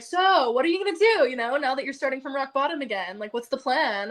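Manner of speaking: fake-friendly, talking down a little; condescending. Upline probing a friend who is starting over, mildly condescending. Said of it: "it just felt so condescending".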